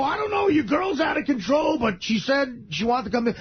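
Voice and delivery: yelling up high over the noise; shouted reply. Retold or imitated. Shouting quote at the door.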